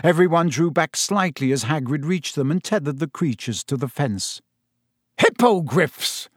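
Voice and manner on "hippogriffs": drawn-out, delighted announcement; happy roar. A narrator's reading. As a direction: roar it proudly and slowly, showing them off. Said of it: "Hagrid roared happily".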